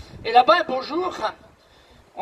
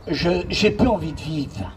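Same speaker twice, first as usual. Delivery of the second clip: mild tearful; 4 semitones lower than usual. Retold or imitated. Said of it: "avec des grosses larmes".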